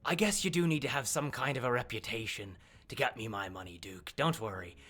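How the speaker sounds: lightly voiced, cool crime boss; a hint of a dealmaker wrapping up business; Phoebe. Phoebe questioning the Duke over money, lightly voiced boss. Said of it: "Phoebe goes".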